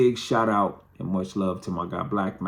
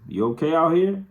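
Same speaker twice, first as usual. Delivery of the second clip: lightly voiced mom calling out, higher and louder; mother checking in; 9 semitones higher, 5 dB louder than usual. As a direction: imitate a mom calling from the door. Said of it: "my mother looks out the front door".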